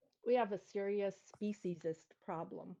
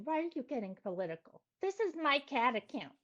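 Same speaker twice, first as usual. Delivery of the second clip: mock the whining commenters; whiny complainer; 5 semitones higher than usual. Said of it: "all the people saying".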